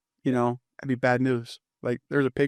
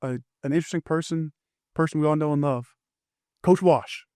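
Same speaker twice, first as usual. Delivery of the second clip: retold introduction; 3 semitones higher than usual. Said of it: "they're giving introductions".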